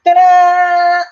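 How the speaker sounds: high, loud reveal ta-da; triumphant ta-da. Real, not acted. Showing the finished wolf to viewers, a loud triumphant ta-da. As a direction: announce the finished piece with a flourish. Finishing painting live on camera.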